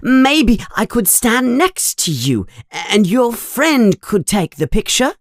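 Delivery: high-pitched, gushing little fan; Colin Creevey, very excited. A narrator's reading. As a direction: pour it out excitedly to your hero. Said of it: "Colin is talking very excitedly".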